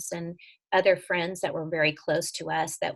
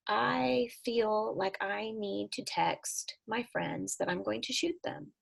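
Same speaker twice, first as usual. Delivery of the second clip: softer and slow, a hint of a scared ten-year-old; quiet daughter voice; 6 dB quieter than usual. Daughter telling her mom about texting friends, soft and slow. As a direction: say it softly and slowly, like the daughter confessing. Daughter quoted saying alarming thing.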